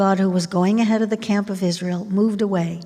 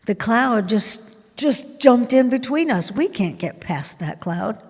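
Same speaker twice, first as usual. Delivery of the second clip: mock-alarmed, raised voice; freaking out; 4 semitones higher, 3 dB louder than usual. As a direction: stammer out a hammed-up panic as the army. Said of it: "they're probably freaking out".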